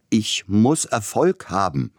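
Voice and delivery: hungry pianist yelling his need; shouting. A narrator's reading. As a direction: burst out with ambition. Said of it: "schrie Sapielnikow".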